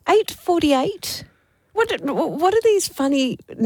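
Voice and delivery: slow, rising disbelief at the number; incredulous. Real, not acted. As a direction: drag it out like it's absurd. Mocking the odd tee time.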